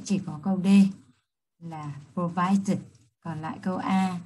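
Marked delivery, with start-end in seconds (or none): 2.1-2.8 "provided" slowly, with -ed as its own syllable; careful teacher's "provided", ending in a separate "id"; ending pronunciation. Shown as a demonstration. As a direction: sound out the extra "id" ending of "provided". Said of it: "Chúng ta sẽ đọc là dệt".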